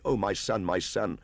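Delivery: mother pleading with her son in alarm; crying out in fear. Acted. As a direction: beg him to flee. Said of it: "Meswa ran across ... cried".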